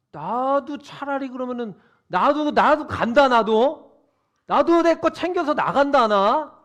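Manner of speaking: angry son storming off; defiant shout. Retold or imitated. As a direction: yell that you're leaving too. Elder son threatening to leave.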